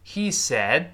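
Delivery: "He said" with the final d held silent; teacher's model of a swallowed d in "said"; unreleased d. Shown as a demonstration. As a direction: stop "said" on the tongue, no d release. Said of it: "最后那个的自然的又会失去爆破了".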